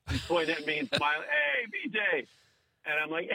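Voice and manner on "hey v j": high-pitched, stretched hail without real volume; imitated shout. Fan hailing comic across pizza joint, imitated shout. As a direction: mimic someone calling out to a celebrity. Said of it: "some guy shouts".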